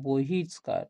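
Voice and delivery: বহিষ্কার with the visarga sounded as s. Shown as a demonstration. Teacher gives students another sandhi example, visarga as s. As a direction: say বহিষ্কার with a sibilant before কার. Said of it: "দন্ত সর মতন উচ্চারণ হচ্ছে".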